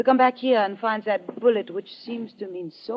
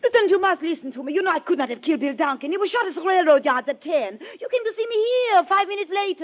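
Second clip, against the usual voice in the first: fast, high, urgent protest; desperate pleading; 5 semitones higher than usual. Acted. Cornered spy begs the lieutenant to believe her, fast desperate plea. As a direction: rush the words out to save yourself.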